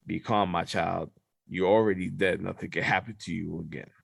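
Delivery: lightly voiced god calming a child; divine being's voice. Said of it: "And then something goes".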